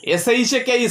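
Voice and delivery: S H A K E spelled letter by letter, each letter separate; spelling out. Shown as a demonstration. Teacher spelling S H A K E for students, letter by letter. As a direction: spell out S H A K E for the class. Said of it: "spells shake letter by letter".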